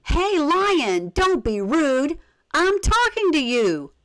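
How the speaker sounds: high-pitched mock scream at the lion; boy screaming. Boy screams at the ignoring lion, high mock yell. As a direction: shriek it up high like a cross little boy. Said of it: "the boy screamed".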